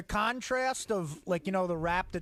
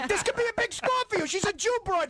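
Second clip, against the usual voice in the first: high pushy mobster; Pesci wiseguy voice; 10 semitones higher than usual. Acted. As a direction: wheedle it like a wiseguy. Goodfellas scene acted out.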